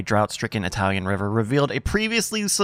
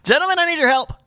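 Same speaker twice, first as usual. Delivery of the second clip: booming chief summons; 11 semitones higher, much faster than usual. Acted. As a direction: go big and urgent. Chief's summons, bigger take.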